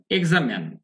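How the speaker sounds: এক্সামেন with last syllable "men"; stress-led "eg-za-men", short final vowel; American pronunciation. Shown as a demonstration. Teacher showing learners American pronunciation, "men" ending. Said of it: "এটা হচ্ছে American pronunciation".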